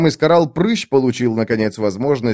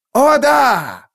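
loud, much higher yell; 5 dB louder than usual. A narrator's reading. Iskaral shouts his answer to the ladies, loud. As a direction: shout it out with glee. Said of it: "заорал".

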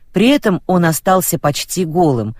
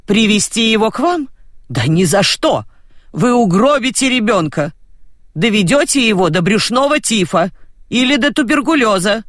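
indignant phone quarrel; 5 semitones higher than usual. Acted.

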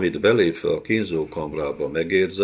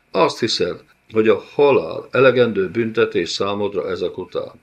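louder vengeful lord, rising on his own name; gloating villain; 4 dB louder than usual. Acted. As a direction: savour the revenge. Villain recalls rejected offer. (bosszúálló, kérkedő gonosz úr)

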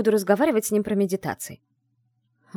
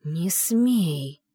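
hissed threat. Acted. Heroine hisses a warning at the mage. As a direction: hiss it through the teeth. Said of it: "прошипела я".

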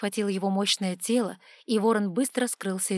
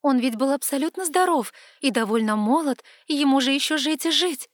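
higher, louder disbelief; shocked protest; 5 semitones higher, 5 dB louder than usual. A narrator's reading. Girl protests the master's death, high and loud. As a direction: protest that it cannot be.

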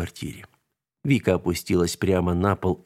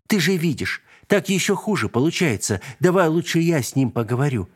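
put-on high little girl's pleading; pleading child; 6 semitones higher than usual. A narrator's reading. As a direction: beg your mom gently, childlike. Girl pleading with mother. (детская мольба)

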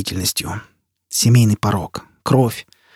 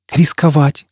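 exclaimed; 4 semitones higher, 3 dB louder, slower than usual. Acted. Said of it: "воскликнул Янг Йовел".

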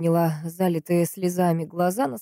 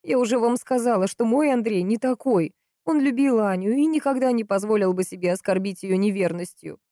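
higher woman's voice, defending her brother; lightly acted insistent sister, pitched up; lightly voiced Valentina, insistent; 5 semitones higher than usual. Sister defends Andrei to the investigator, lightly insistent.

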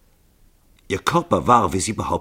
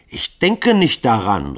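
laut und langsam trotzig gerufen; 4 semitones higher, 6 dB louder, slower than usual. A narrator's reading. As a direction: die Weigerung hinausrufen. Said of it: "rief Grunja". (Grunja verweigert sich laut)

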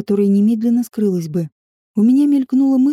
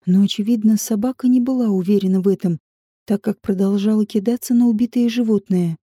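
plain reading voice

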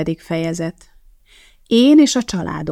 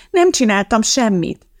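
put-on higher, startled child's protest; alarmed; 4 semitones higher, 3 dB louder than usual. A narrator's reading. Judy defends herself to the teacher, alarmed. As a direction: protest innocence with mild alarm. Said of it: "kérdezte riadtan Judy".

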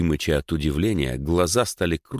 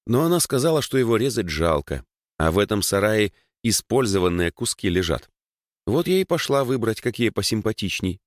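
put-on slightly higher, chatty girl's voice; a hint of a girl explaining eagerly; lightly voiced Dasha, explaining; 4 semitones higher than usual.

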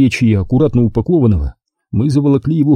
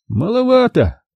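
higher, considering drawl; doubtful musing; 12 semitones higher than usual. A narrator's reading. Ukhov frowning over the diver's offer, unimpressed. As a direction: weigh it up, unimpressed. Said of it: "наморщив лоб, что-то прикидывал Ухов".

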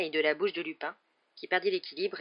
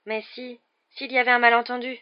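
higher-pitched, anxious objection; timid protest; 7 semitones higher, 8 dB louder than usual. A narrator's reading. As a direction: start small, then press the point. Hermione proteste face à Rogue. (protestation aiguë et inquiète)

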